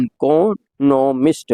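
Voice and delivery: इकोनॉमिस्ट with the second syllable "con" stressed. Shown as a demonstration. Teacher showing the stress in इकोनॉमिस्ट. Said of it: "दूसरे syllable पर ज़्यादा जोर".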